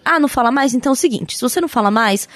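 firm, cool ultimatum; mildly imitating a cold ultimatum; understated stern laying down terms; retold ultimatum. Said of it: "Eu falei".

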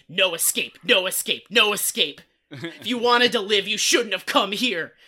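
loud chanted warning, acted out; hammed-up menace, each threat punched; menacing threat. Man warning trapped flies there's no escape, mock menace.

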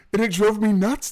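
laughing exasperation. Real, not acted. Laughing at his frustration.

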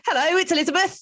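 high, put-on Oliver Twist urchin accent; hammed-up Oliver Twist cockney. Host introducing a caller's voice note, bad Oliver Twist accent. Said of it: "made it sound like Oliver Twist".

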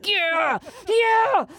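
yelping with glee; giddy cheer. Retold or imitated. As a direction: cheer like a kid who got a treat. Giddy in the bathtub.

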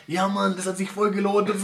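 bragging shout. Retold or imitated. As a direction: shout it like a proud drunk partygoer. Voices a boastful drunk partygoer.

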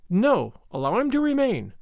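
a touch of entreaty; begging. A narrator's reading. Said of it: "Lolita begged".

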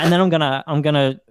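usual speaking voice

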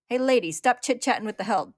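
loud, annoyed thug cutting in. Acted. Thug cutting in on Lust's chat, annoyed shout. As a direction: bark it at her, irritated.

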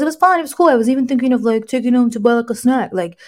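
lightly imitated teenage son; a hint of a teenage boy retelling his outing. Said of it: "her teenage boy voice".

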